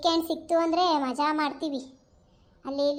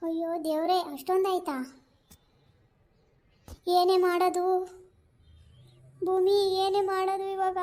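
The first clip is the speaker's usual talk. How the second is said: higher, fretful mock panic over the bill; hammed-up worry about the bill, higher voice; panicked customer; 4 semitones higher than usual. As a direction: play a flustered eater who can't pay, pitched up. Skit, customer can't pay bill.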